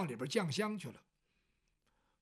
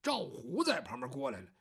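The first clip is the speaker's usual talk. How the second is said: plain reading voice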